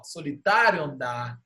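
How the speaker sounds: "solitário andar" recited as linked words; declamado, vogais juntas. Shown as a demonstration. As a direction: merge the touching vowels in "solitário andar". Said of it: "a gente fala assim, ó". ("solitário andar" emendado, como na declamação)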